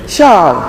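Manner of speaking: "shall" given weight, falling at the end of the phrase; emphasis on shall. Real, not acted. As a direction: press down on "shall" as the binding word. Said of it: "I emphasize the word shall".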